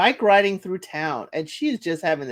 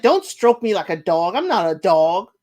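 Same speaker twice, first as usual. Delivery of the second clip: irritated snap; 5 dB louder than usual. Retold or imitated. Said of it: "She's like".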